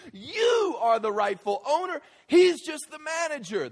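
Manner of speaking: loud, high sermon climb, hammering each line; fired-up preacher, laughing between points; preaching at full force. Acted. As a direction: preach it hard to the back row. Pastor driving the point home.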